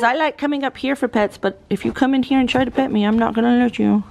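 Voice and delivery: a hint of a sassy goat; voicing the goat. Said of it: "Time says".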